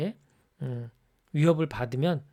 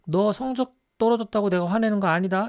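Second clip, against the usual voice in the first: higher, tense parent saying they are not angry; irritated denial; 6 semitones higher, 4 dB louder than usual. Retold or imitated. Parent to daughter, denying anger in a higher tense voice. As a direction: insist you are not angry while clearly angry. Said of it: "이제 이렇게 말을 해요".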